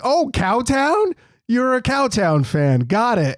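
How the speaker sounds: slow, drawn-out sarcasm; sneering at the Kings fan, slow and drawn out; mock condescending. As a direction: patronize him slowly. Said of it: "I was like".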